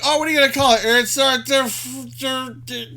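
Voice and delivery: excited inventor. Retold or imitated. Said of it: "sounds like".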